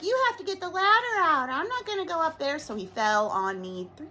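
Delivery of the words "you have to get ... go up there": higher, lazy Santa decoration voice; lightly voiced grumpy Santa. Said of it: "Santa's like".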